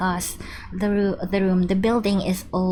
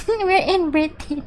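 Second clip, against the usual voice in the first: higher-pitched, through laughter; laughing; 9 semitones higher than usual. Real, not acted. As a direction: laugh while saying it. Laughing at game being set there.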